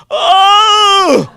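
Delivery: high, loud startled yelp; shocked cry. Retold or imitated. Little general shrieking at the one leg. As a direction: yelp like a kid who just saw a missing leg. Boy sees the missing leg.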